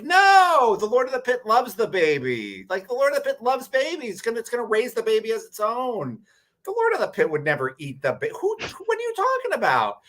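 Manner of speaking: very high goblin squeal, insisting; indignant goblins. Acted. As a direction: squeak out shocked goblin protest at such a silly question. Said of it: "And everyone was like".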